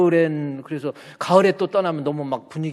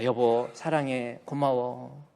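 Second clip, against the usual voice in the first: tender; 3 semitones lower, 5 dB quieter, slower than usual. Shown as a demonstration. Models husband's loving words to wife.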